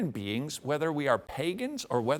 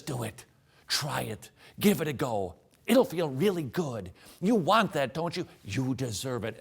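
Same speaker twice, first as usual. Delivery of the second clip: tempting flesh voice; 3 semitones lower than usual. Acted. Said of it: "flesh that says".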